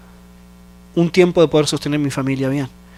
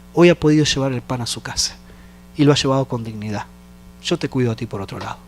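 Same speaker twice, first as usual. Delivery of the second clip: voz de Dios; 2 semitones lower, 3 dB quieter than usual. Retold or imitated. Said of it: "Dios me decía".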